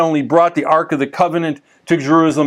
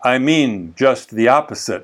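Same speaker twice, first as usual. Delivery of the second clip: lower, lightly imitated Creole accent; 4 semitones lower than usual. Haitian pastor explaining his sarcasm, light Creole accent. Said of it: "with his Creole accent".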